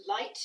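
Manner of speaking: "light" stressed and set apart; emphasis on LIGHT. Real, not acted. Teacher cautioning about headache relief, stress on "light". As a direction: lean on the word "light". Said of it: "I put the emphasis on light".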